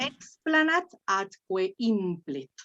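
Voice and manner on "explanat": slow explanat with stress on EX; stress on first syllable. Shown as a demonstration. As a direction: model it slowly as EX-pla-nat. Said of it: "Te lo llevas a la primera". (explanat despacio, acentuado en la primera sílaba)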